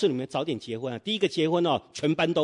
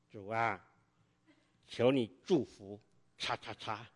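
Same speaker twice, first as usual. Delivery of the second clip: softer, reluctant, through gritted teeth; grudging prayer; 5 semitones lower, 9 dB quieter, slower than usual. Retold or imitated. Young believer prays for his enemy, quiet and grudging through gritted teeth. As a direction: force the blessing out unwillingly. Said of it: "首先是咬牙什么？".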